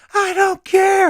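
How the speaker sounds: shrill, very loud screaming at top pitch. Retelling being chewed out by a superior on stage: imitating someone screaming. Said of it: "screaming and everything".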